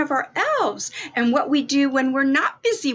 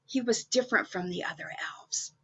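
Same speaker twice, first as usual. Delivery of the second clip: soft, fast whisper; hushed; 5 semitones lower, 6 dB quieter, faster than usual. A narrator's reading. Telling children about the lonely elf, whispered. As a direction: whisper it like a secret. Storyteller hushes a sad detail.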